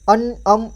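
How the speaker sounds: अन, अम closing on nasal hums; nasal sound demo. Shown as a demonstration. Teacher showing how the anusvara sounds, nasal endings on अन, अम. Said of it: "इस तरह की आवाज़ आएगी".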